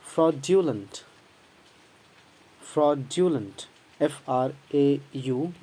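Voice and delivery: fraudulent drawn out very slowly; slow careful drill. Shown as a demonstration. Teacher drilling fraudulent slowly for the class. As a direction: stretch each syllable of fraudulent. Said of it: "and its adjective is".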